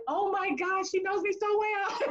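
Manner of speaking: thrilled and a little overwhelmed; laughing amazement. Retold or imitated. Realising the lady truly sees her, laughing.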